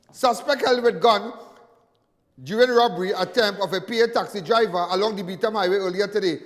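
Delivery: crime bulletin read out, headline punched; news read. Acted. Host reading a robbery report to viewers, news read. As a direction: read out the police report like a newsreader.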